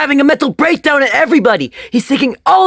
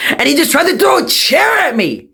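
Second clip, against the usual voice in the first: high, indignant alarm; alarmed complaint; 4 semitones higher than usual. Acted. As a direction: voice climbing into a cry. Student reporting assault to principal.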